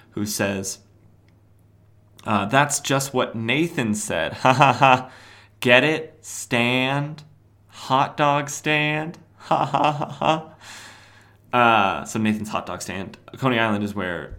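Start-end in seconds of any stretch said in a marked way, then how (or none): 2.5-12.0 higher, louder mock guffaws; hammy fake laugh at a bad joke; pun-proud editor. Editor cracking up at his own hot dog pun, mock laughing.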